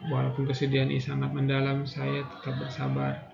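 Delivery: guided affirmation. Acted. Leads tapping affirmation.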